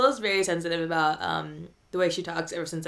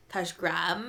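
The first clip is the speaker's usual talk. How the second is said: put-on Valley Girl drawl; 2 semitones lower, 6 dB quieter than usual. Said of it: "that's kinda like a Valley Girl".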